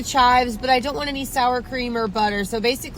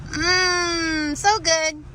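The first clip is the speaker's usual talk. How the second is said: savoring yum; 5 semitones higher, much slower than usual. Real, not acted. Tasting the food on camera.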